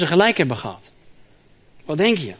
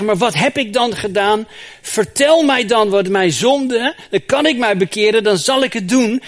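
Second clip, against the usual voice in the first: loud, raised pleading as Job; 5 semitones higher, 4 dB louder than usual. Acted. Job begging his friends to name his sin, raised and pleading. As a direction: beg them to name the sin.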